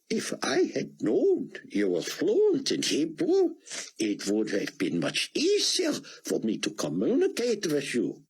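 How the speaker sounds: put-on gentle surprise from an elderly scholar; voiced old rabbi. Ben Judah speaks to Buck.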